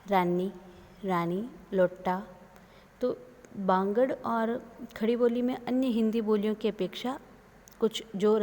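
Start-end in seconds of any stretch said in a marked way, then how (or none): 0.1-2.3 रानी said as rannee, लोटा as lotta; doubled consonant. Shown as a demonstration. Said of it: "द्वित्व व्यंजन". (दोहरे व्यंजन के साथ रानी, लोटा)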